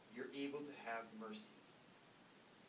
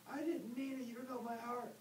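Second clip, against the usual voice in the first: high mocking whine of the banned man; mock whiny protester; 10 semitones higher than usual. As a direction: mimic the offended guy in a high voice. Banned guy defends himself.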